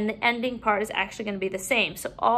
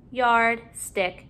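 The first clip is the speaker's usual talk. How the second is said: "Yard, stick" as two separate words; parts apart. Shown as a demonstration. Teacher putting a new syllable in, parts apart. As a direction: pause between "Yard" and "stick". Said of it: "putting a new syllable in".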